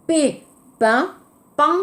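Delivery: pain with an unaspirated P; clear P. Shown as a demonstration. Teacher contrasting P with B, clean. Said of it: "le P".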